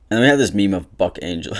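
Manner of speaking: real laughter. Real, not acted. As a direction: laugh out loud at the meme. Laughing at a meme.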